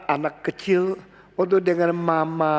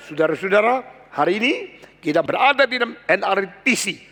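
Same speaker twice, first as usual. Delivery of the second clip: lively greeting; 3 semitones higher than usual. Shown as a demonstration. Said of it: "Tapi saya bilang".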